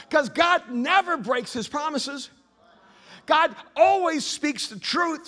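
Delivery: loud, high pulpit preaching; fiery sermon delivery; preaching at full force. Acted. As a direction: drive it home to the congregation.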